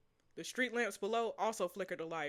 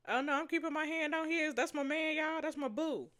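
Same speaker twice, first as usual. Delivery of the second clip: giddy; 7 semitones higher than usual. Real, not acted. Gushing while reading her choice.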